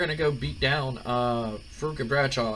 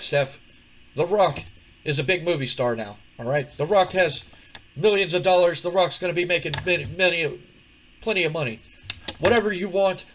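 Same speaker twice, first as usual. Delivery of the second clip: higher, louder swaggering boast; The Rock, boastful; 5 semitones higher, 6 dB louder than usual. Retold or imitated. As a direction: talk down to her about your money. The Rock brags to Stephanie.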